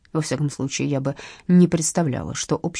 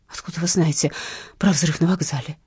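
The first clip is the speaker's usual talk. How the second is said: plain reading voice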